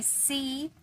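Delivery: सी slowly, with the ee held; pronunciation model. Shown as a demonstration. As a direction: stretch the ee in सी for learners. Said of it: "इसे हम कहेंगे". (सी में खिंची हुई ई)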